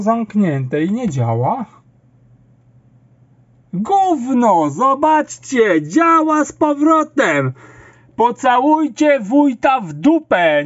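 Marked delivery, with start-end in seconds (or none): 3.7-10.6 raised, exasperated outburst; angry shouting. Real, not acted. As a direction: yell at the computer in frustration.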